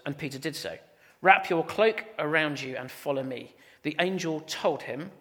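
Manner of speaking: scripture reading. A narrator's reading. Preacher reading Acts to the church, measured scripture reading. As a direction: read the passage out clearly and soberly. Reads the Bible passage aloud.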